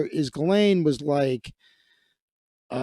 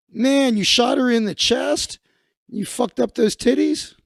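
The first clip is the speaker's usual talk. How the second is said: mock outrage; 7 semitones higher than usual. Mock outrage at the news clip.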